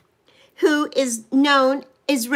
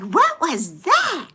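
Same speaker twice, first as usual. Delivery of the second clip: startled daughter; 3 semitones higher than usual. Retold or imitated. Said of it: "She's like".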